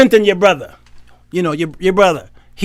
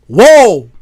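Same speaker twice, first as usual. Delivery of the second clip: amazed Adam; 4 semitones higher, 8 dB louder than usual. Retold or imitated. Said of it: "He called her".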